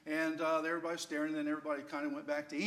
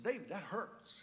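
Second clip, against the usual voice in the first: mock hurt; 3 semitones higher, slower than usual. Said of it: "I was kinda teasing him".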